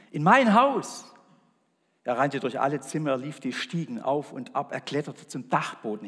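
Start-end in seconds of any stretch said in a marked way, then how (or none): 0.1-1.0 higher, louder excited cry; shout. Acted. Man learns God will visit, shouting. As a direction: shout it out in disbelief. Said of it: "schrie er".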